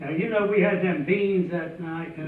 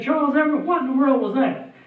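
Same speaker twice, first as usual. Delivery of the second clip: startled call; 6 semitones higher, faster than usual. Retold or imitated. Startled boy calls to cousin.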